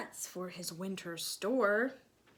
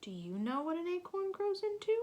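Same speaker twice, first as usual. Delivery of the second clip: higher, fast, bright asking; eager question; 8 semitones higher, faster than usual. Real, not acted. Teacher quizzing children eagerly. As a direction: pop the question up high.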